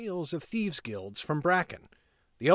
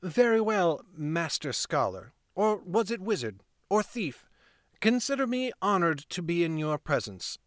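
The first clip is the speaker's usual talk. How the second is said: a hint of a cool, scornful young woman; lightly voiced heroine brushing him off; Lauren voiced. Lauren's dialogue, dismissive.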